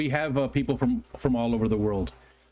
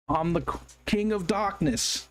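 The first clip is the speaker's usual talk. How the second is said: a singer; 3 semitones higher than usual. Retold or imitated. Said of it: "I can't do his accent".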